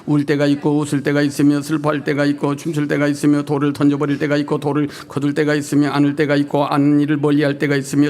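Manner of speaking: scripture reading. Acted. Reads scripture aloud with congregation.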